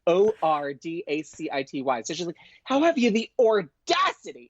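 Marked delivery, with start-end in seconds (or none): 2.6-4.5 imitating Ramona. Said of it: "she says audacity".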